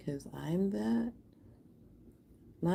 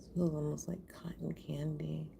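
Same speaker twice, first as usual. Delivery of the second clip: whisper; 6 dB quieter than usual. Real, not acted. Soft aside while doing art.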